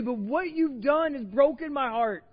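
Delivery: high, loud impassioned pleading; preaching at full force. Acted. God's heartbreak preached.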